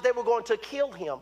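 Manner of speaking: normal talking voice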